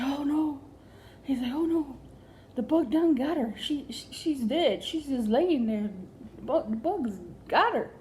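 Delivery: alarmed husband. Retold or imitated. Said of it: "he was like".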